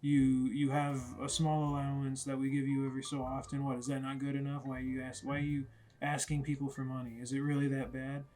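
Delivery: mildly indignant, insistent parental questioning; scolding dad. Retold or imitated. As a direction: lecture the kid, half acting the anger. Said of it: "the dad starts scolding him".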